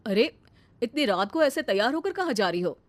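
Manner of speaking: lightly voiced mother-in-law, taken aback; a touch of disapproval in the question. Mother-in-law asks bahu where she is going at night, questioning.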